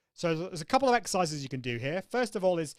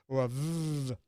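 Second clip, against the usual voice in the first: buzzing v demo; 2 semitones lower, slower than usual. Shown as a demonstration. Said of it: "breathe out to these different sounds".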